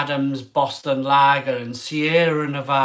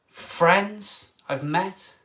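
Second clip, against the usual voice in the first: slow, tearful; tearful, slowly; emotional; 3 semitones higher, much slower than usual. Real, not acted. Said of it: "I'm crying".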